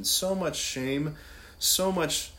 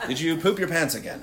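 laughing; 4 dB louder than usual. Retold or imitated.

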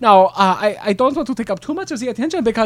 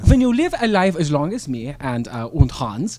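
lightly put-on German accent; old German philosopher voice; 4 semitones lower than usual. Improv German character Ehrlich.

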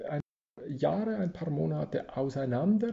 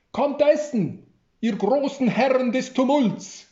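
higher and louder, a giggling call to the table; 12 semitones higher, 9 dB louder than usual. Acted. Barletta calls the two men to eat, giggling and higher. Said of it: "kicherte es durch die Kirche".

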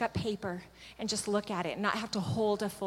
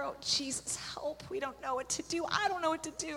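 soft, hushed pleading prayer; whispered prayer; 6 semitones higher, 8 dB quieter than usual. Retold or imitated. Praying over the sick woman, a hushed whisper.

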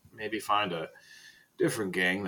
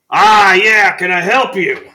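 put-on high, loud eccentric old librarian; Faust answering the door; 10 semitones higher, 17 dB louder, slower than usual. Old librarian greeting a late-night knock at the door. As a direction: pop the door open with a squawk. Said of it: "then you just hear him go".

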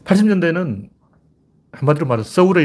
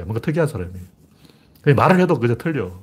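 normal talking voice

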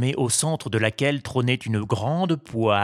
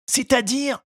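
puppet voice; 14 semitones higher than usual. A narrator's reading. Pinocchio asks.

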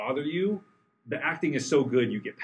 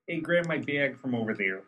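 put-on Chicago accent. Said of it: "Chicago accents".

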